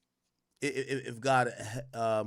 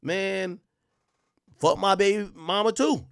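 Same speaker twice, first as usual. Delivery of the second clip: 1 mocking fed-up men; 7 semitones higher, 6 dB louder, slower than usual. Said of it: "they're looking at it like".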